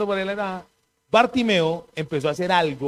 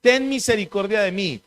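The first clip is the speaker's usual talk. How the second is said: mild retold shout; 3 semitones higher than usual. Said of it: "Bartimeo empezó a gritar".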